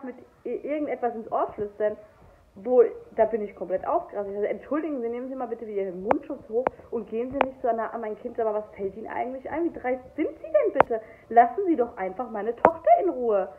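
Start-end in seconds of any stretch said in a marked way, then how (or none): 4.5-13.5 indignant scolding that rises to a shout; retold outburst, building loud. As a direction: build from stern to loud at the stranger. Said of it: "ich bin richtig ausgerastet an der Kasse". (empörte Standpauke, die immer lauter wird)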